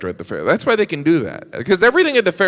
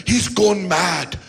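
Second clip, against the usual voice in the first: bad British accent; 4 semitones higher than usual. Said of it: "your British accent is getting worse".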